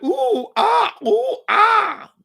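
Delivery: high, swooning mock "ooh, ah"; mocking fans cooing. Streamer mocking a pottery stream's chat with high swooning coos. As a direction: coo like dazzled fans, hammed-up. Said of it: "And people were like".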